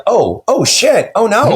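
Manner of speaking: high-pitched, retold dismay; horrified. Author retelling a dream accident to podcast hosts, mock-horrified. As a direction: replay the dawning horror of what you did. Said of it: "super apologetic and horrified".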